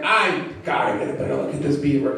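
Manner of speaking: deadpan line. Shown as a demonstration. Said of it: "I should change the wording".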